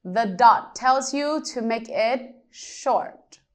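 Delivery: whispered aside to the class; hushed teacher hint. Shown as a demonstration. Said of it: "What do you think?".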